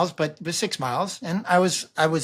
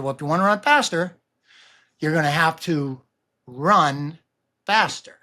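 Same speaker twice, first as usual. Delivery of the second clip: deadpan pauses on run and faster; punchline timing. Retold or imitated.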